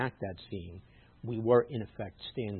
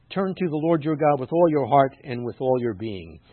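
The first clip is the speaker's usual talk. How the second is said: scripture reading; 3 semitones higher, 8 dB louder than usual. Acted. Reads scripture aloud, emphatically.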